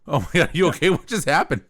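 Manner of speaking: sudden alarmed concern; startled. Real, not acted. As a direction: caught off guard, asking if okay. Headphones snap, startled concern.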